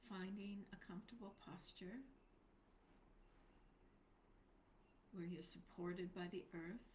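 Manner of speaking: unhurried instructions with long silences between phrases; guided meditation. Real, not acted. Teacher guiding a group into posture for meditation, spacious and unhurried. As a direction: settle listeners gently, leaving space after each phrase.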